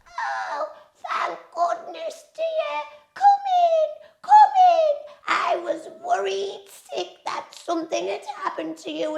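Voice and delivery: put-on very high, quavery old granny; old grandma voice. A narrator's reading. Grandma greeting at the door, very high and fretful. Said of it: "said Grandma".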